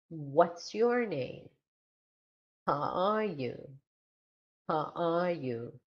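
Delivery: slow questions, falling on name and you; falling question intonation. Shown as a demonstration. Teacher drilling WH questions, falling tune on name and you. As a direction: let name and you drop at the end. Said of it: "W H questions following".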